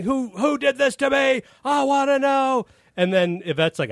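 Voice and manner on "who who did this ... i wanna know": high mock yell, demanding answers; imitated yelling. Chevy yelling at crew, high mock angry yell. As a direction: shout it up high like a furious star. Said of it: "he's yelling".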